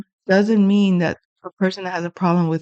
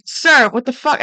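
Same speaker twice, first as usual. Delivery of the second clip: alarmed retort; 5 semitones higher than usual. Retold or imitated. Daughter banging on car window.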